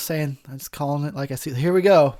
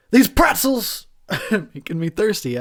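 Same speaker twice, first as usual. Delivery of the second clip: failed Costanza line; 5 semitones higher, 3 dB louder than usual. Retold or imitated. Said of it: "I wish I had a George Costanza impression".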